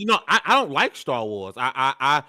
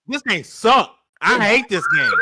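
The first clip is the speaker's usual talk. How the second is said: loud, higher-pitched angry rant; indignant raised voice; mad; 5 semitones higher, 5 dB louder, slower than usual. Real, not acted. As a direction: declare it with real loathing. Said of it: "he is mad".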